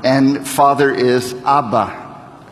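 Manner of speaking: Abba slowly, AH-buh, falling; Aramaic Abba. Shown as a demonstration. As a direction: teach the word Abba slowly. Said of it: "Can you say that?".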